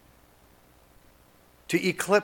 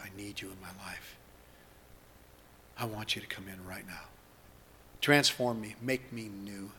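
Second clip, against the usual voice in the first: spoken prayer. Acted. Leads congregation in spoken prayer.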